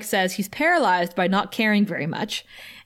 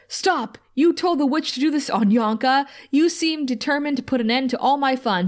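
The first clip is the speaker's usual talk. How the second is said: higher-pitched imitated accusation; half-hearted bellow of complaint; mock troll outrage; 4 semitones higher than usual. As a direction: lightly act out an indignant troll. Retelling the troll's angry accusation.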